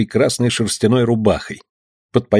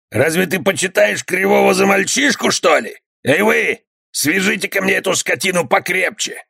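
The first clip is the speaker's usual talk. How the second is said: angry bandit; 9 semitones higher than usual. Acted. Bandit strikes and orders.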